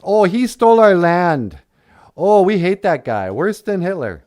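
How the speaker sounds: loud, high whining complaint; mock outrage. Mocking modern critics of Columbus, hammed-up outrage. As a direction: play up the indignant griping. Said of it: "to get all angry at Christopher Columbus".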